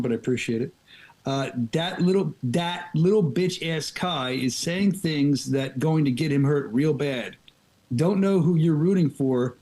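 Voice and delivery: slow, deliberate read of someone else's hype message; fan's trash-talk hype read out slowly. Retold or imitated. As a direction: drag out the fan's words like a fight promo. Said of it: "this is his words, not mine. I don't talk like this".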